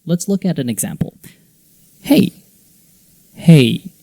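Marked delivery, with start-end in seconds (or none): 2.0-2.3 HEY with a rising tune; short HEY, going up; rising intonation. Shown as a demonstration. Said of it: "rising, falling". 3.3-3.9 HEY with a falling tune; loud HEY, going down; falling intonation. Shown as a demonstration. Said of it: "rising, falling".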